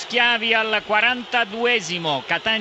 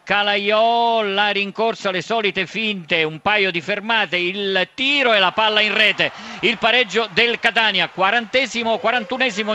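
breathless italian goal commentary; 3 dB louder than usual. Real, not acted. Live penalty play-by-play.

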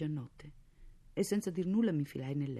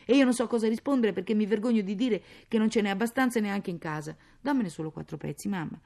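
put-on higher, agitated child's pleading; anxious plea; 4 semitones higher, 6 dB louder than usual. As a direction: plead with mother, ashamed and worried. Child anxiously begs for wood. (supplica agitata di bambina)

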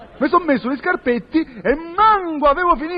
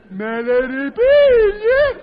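slow whining plea; 4 semitones higher, much slower than usual. Acted. Indignant at losing shoes.

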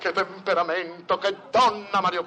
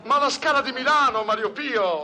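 exasperated; 10 semitones higher, 6 dB louder than usual. Acted. Exasperated correction.

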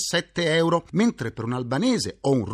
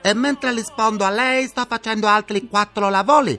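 put-on sing-song Chinese-accented phone operator; 3 semitones higher than usual. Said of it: "vi risponderanno con questo sottofondo musicale".

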